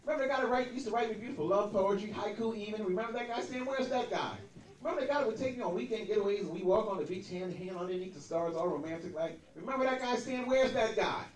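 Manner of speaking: lightly voiced pleading ex-fiancée; whiny, insistent "remember that guy"; nagging ex. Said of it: "She leaned into me".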